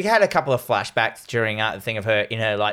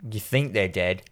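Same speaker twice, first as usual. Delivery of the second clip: low hush dropping into a whisper; quiet, ominous mock suspense; hushed movie suspense; 6 semitones lower, 8 dB quieter than usual. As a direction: whisper it like a spooky film line. Mimicking a typical ominous movie line.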